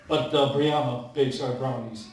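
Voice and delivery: low chuckling baker; Bob the baker. Acted. Bob answers laughing, lower.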